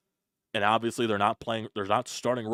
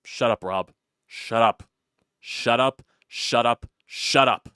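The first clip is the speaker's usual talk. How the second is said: angry shout; 6 dB louder, slower than usual. Real, not acted. Yelling at the manager.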